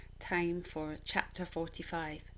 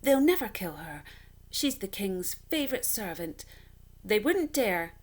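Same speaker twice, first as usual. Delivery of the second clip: insisting aloud; 3 semitones higher, 6 dB louder than usual. Acted. Bert insisting to himself.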